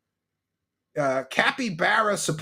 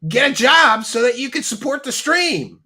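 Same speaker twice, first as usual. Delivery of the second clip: imitating Darkside Phil; 4 semitones higher, 5 dB louder than usual. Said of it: "shit that Darkside Phil has been saying".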